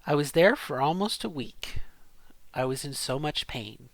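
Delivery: story read with rising and falling inflection; reading aloud. Shown as a demonstration. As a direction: read out a confession, pausing between short sentences. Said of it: "So I'm gonna read this to you".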